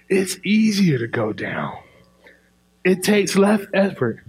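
unvoiced whisper. Real, not acted. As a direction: breathe it as a whisper. Whispered aside in sermon.

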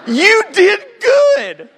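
high, slow, laughing through the words. Real, not acted. Preacher replays his lame line to the coach, laughing. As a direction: repeat it while cracking up. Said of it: "all I could come up with was this".

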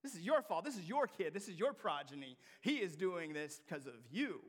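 accusing, stress on your; mock angry accusation; blaming. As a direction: jab the blame at the father. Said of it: "He's blaming the father".

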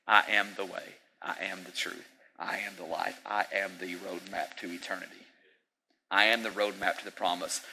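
soft, calm I am statements; calm declaration. Retold or imitated. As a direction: declare it gently but firmly. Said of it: "Jesus explained".

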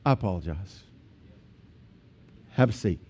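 low, soft, conciliatory voice; hushed, soothing peacemaker; calm apology. Acted. Models a de-escalating response.

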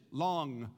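long with the back of the tongue on the roof of the mouth, ending in a clear ng; saying long. Shown as a demonstration. Pastor demonstrating long for the class, ng held at the back. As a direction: say long slowly, landing the final ng. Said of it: "You hear it? You see it?".

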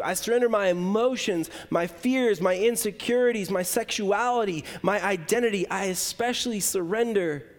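steady, pleading prayer of surrender; lifting each item up to God; earnest prayer. Acted. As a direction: pray it over the congregation line by line. Surrender prayer led aloud.

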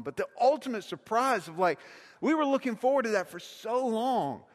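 ordinary talk, nothing marked

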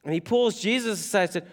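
ordinary talk, nothing marked

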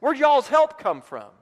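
mock Alabama accent; Alabama twang. Shown as a demonstration. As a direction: pitch it up like a country preacher. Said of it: "That's not how they'd say it in Alabama".

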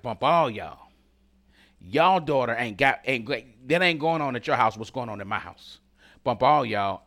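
lightly acted desperate woman brushing everyone off; imitated desperate outburst, mostly loud; mock desperate defiance. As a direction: push it out as a desperate mother, half-playing. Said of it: "this woman was so desperate".

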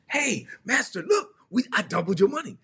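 high, eager servant reporting back; proud servant showing off doubled money, pitched high; excited servant. Retold or imitated. Servant to his returning master, eager and pitched high. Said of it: "when the master returned".

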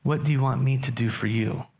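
slowed, marvelling, stress on "do"; awed rereading of Jesus' question; wondering emphasis. Shown as a demonstration. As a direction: savour the question "What do you want me to do for you?". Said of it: "Who's serving who here?".

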